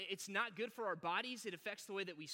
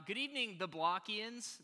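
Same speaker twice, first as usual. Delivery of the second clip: grand greeting; 4 dB louder than usual. Shown as a demonstration. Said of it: "We'll go with that".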